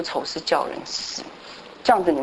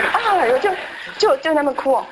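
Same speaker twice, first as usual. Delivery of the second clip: retold crying; 9 semitones higher than usual.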